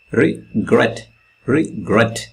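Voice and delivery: Regret with gret stressed and re light, said twice. Shown as a demonstration. Teacher drilling the stressed last syllable, gret stressed. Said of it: "stress comes in the last syllable".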